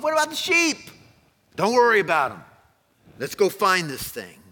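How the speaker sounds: loud, high hurried calling out; excited shepherds. Acted. Shepherds dropping everything to find the baby, excited shouting. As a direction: call out as you dash off.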